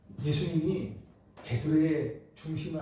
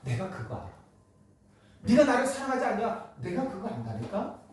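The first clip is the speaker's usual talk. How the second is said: tender reassurance; 2 semitones higher than usual. Retold or imitated. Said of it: "예수님이 그렇게 물으시는 거예요".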